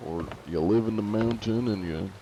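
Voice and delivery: normal voice with Southern tang; Southern accent. Shown as a demonstration. Streamer shows how easy Southern is, Southern accent. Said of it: "just with a Southern tang to it".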